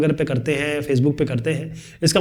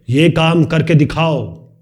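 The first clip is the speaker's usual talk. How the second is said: slow, firm order, ये hit hard; commanding; much slower than usual. Shown as a demonstration. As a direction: command it like a boss. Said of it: "ये अलग तरीका हो गया". (आदेश देते हुए, सख़्ती से)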